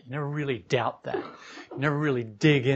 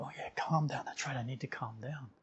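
sheepish agreement; 3 semitones lower, 14 dB quieter than usual. Acted. Accepting advice to calm.

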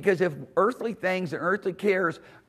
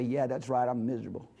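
low, glum mock sulk; acted-out dejection, trailing softly downward; 5 semitones lower, 4 dB quieter than usual. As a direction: mumble it low, wallowing in self-pity. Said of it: "'cause now you just sulk".

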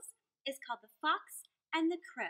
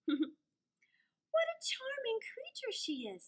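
fox whisper; 11 semitones higher, much slower than usual. Acted. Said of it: "said Fox".

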